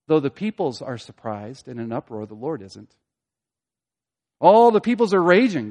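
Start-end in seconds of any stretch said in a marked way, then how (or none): 4.4-5.7 loud, raised, swelling on "All"; raging emphasis. Shown as a demonstration. Preacher contrasting raging peoples with God, loud emphasis. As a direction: preach the uproar at high volume.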